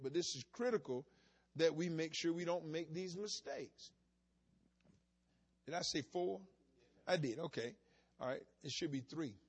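ordinary talk

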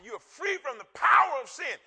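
loud, high, power hit hard; preacher shouting the verse; shouted proclamation. Acted. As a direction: proclaim it to the whole church. Preaching quoted scripture.

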